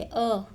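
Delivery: अ as a lone "uh"; vowel sound alone. Shown as a demonstration. Teacher isolating the vowel before R, plain "uh". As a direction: isolate the "uh" of curd. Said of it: "पढ़ेंगे".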